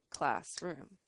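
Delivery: "classroom" as two chunks, class and room; split into syllables. Shown as a demonstration. Teacher showing the sounds in the word, "classroom" split in two. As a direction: say "classroom" with a small gap after class. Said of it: "in between class and room because those".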